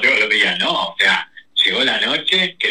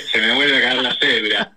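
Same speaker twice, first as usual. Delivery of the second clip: laughing through the words; amused laughter. Real, not acted. Joking to the interviewer about showing their age, laughing. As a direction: say it through a self-mocking laugh.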